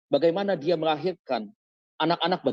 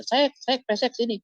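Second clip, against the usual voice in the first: retold yelling; 10 semitones higher, slower than usual. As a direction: bellow a rude nickname to summon her. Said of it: "dia teriak-teriak panggil".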